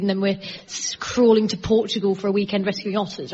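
lightly voiced posh lady, slowed; a hint of a terribly posh shopper; posh woman impression. Comic mocking posh environmentalist women at Waitrose. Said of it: "those women that are terribly, terribly posh".

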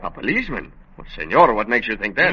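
light put-on Spanish accent, a detective in disguise; a lawman faking a mild Spanish accent; phony Spanish accent. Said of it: "with that phony accent".

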